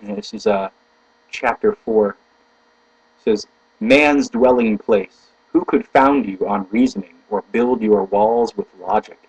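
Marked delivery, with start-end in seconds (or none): 3.8-9.2 careful reading with stressed key words; slow the opening, weight the important words; emphatic reading. Shown as a demonstration. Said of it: "right emphasis on the right words".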